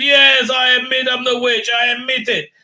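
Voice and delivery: high, loud put-on confessing voice; dramatic confession. Woman admitting she is the witch, high loud put-on voice. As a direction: play the guilty admission big.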